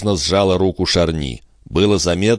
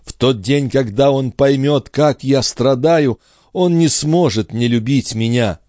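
higher queen's voice, slowing on her pain; suffering queen; 7 semitones higher than usual. A narrator's reading. Queen tells Charny of her suffering, higher voice.

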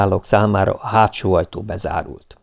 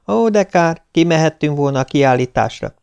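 put-on higher, friendly girl's voice; a bright young woman calling a friend, higher; young woman on the phone; 7 semitones higher than usual. Viktória calls Nándi at dinner, friendly higher voice.

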